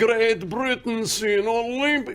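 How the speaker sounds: high-pitched Russian accent, played for show. Repeating the guest's phrase back, in a Russian accent. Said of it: "Got to be done with Russian accent".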